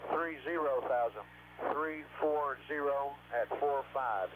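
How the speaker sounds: clipped callouts over a radio link; crackly military radio. Real, not acted. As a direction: read numbers like a pilot on comms. Pilot radio callouts from aircraft.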